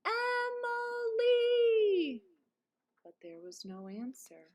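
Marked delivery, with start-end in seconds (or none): 0.0-2.2 very long, high, loud drawn-out call; calling far. A narrator's reading. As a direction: hold the name as long as you can. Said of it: "he called as loudly as he could".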